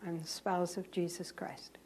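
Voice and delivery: hushed, breathy-free whisper to the Lord; a soft confession whispered to God; whispered prayer. Retold or imitated.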